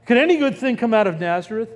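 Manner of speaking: quick scoffing sarcasm; sarcastic. Retold or imitated. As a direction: toss it off fast, mocking the idea. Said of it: "Because this is sarcasm".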